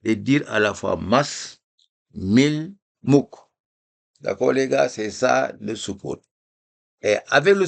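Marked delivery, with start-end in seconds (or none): 0.0-3.3 "mas", "mil", "mouk" said in one go, no pause on the vowel; reading together. Shown as a demonstration. Teacher showing how to read soukoun, clipped. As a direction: run each word straight into its final consonant. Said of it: "Donc, il faut".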